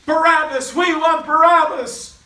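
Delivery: loud, high mob chant; full-voiced shouted demand; crowd yell. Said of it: "they're yelling out".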